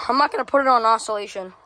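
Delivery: quick line with an accidental crack. Real, not acted. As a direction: voice cracking briefly mid-sentence. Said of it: "I just had a voice crack there".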